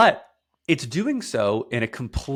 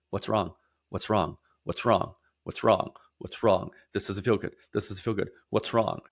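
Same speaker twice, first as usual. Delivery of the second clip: put-on anxious child inner voice. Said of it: "my nervous system instantly said".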